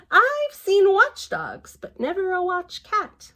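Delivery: slow, high, lightly voiced impressed policeman; a hint of a hearty constable. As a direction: play the admiring policeman.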